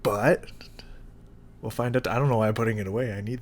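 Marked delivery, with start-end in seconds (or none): 0.0-0.4 whisper. Real, not acted. Whispered aside before tasting.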